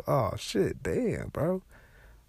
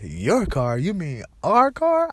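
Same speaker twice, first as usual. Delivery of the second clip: high, loud, slowed indignant squawk, hammed up; mock outraged girlfriend; 9 semitones higher, 8 dB louder, slower than usual. Imitating the neighbor lady yelling at her boyfriend, high and loud. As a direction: imitate her snapping back, shrill with outrage. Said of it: "This bitch said".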